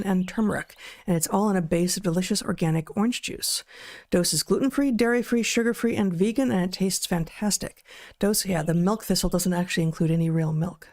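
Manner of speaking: steady sponsor read to listeners. Acted. Host reads a liver supplement ad to viewers, upbeat ad voice. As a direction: pitch the product like a host read.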